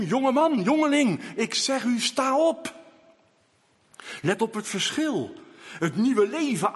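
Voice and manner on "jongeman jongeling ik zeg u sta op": raised commanding call; loud call. Retold or imitated. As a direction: call the young man up from the bier. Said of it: "riep hij met luide stem".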